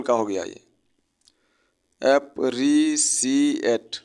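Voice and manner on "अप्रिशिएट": अप्रिशिएट said slowly in four syllables. Shown as a demonstration. Teacher slowly sounds out अप्रिशिएट in syllables. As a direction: spell out अप्रिशिएट by its beats. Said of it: "चार syllable का word है".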